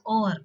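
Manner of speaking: "over" shortened to o'er, without the V; "over" run together as oh-er; contracted o'er. Shown as a demonstration. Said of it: "You pronounce it as over".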